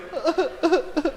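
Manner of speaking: small high choked whimpers, held in; mock restrained mourning, in short soft gasps; stifled funeral sob. White mourner at a funeral, stifled sobbing. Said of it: "they hold their shit in".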